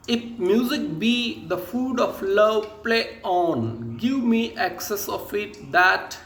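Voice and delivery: measured, emphatic recitation of Shakespeare; reading a verse line. Shown as a demonstration. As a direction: present the line deliberately, phrase by phrase with pauses. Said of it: "एक line present कर रहा हूँ". (नाटक की पंक्ति का ठहर-ठहर कर पाठ)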